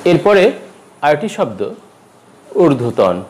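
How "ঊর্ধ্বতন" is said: ঊর্ধ্বতন stopped on n; no vowel after ঊর্ধ্বতন; wrong pronunciation. Shown as a demonstration. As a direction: say ঊর্ধ্বতন as "urdho-tawn". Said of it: "ঊর্ধ্বতন হবে না".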